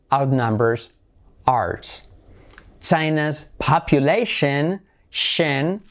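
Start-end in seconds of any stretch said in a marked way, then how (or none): 5.1-5.8 "Shen" begun with a clear SH; SH sound. Shown as a demonstration. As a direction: isolate "Shen" as the last syllable of population. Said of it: "letra clave S H".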